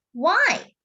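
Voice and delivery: high, pointed question; puzzled child. Acted. Casey questioning the older boy, high and puzzled. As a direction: ask it innocently high.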